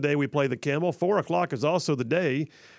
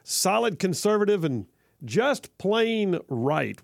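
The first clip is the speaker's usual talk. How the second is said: high, then slow drawn-out slogan; a light imitation of the jingle announcer; echoing the jingle; 4 semitones higher, slower than usual. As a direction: mimic the station jingle lightly. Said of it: "like the dude just said".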